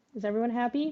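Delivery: plain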